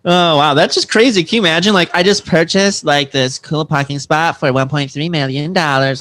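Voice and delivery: put-on a light Valley Girl lilt; Valley Girl bragging about a parking spot, lightly voiced. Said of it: "the Valley Girl thing".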